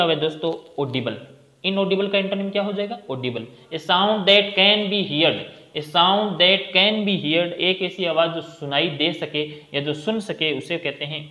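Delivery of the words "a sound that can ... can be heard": very slow, word by word; slow dictation. Shown as a demonstration. Teacher dictating a definition to the class, very slow. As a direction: dictate it so students can write. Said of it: "teacher dictating definition".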